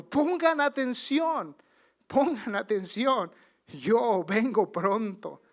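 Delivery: slow loud preacher's warning; emphatic warning. Acted. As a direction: warn the congregation, drawing out each word. Quoting the Lord's warning, emphatic.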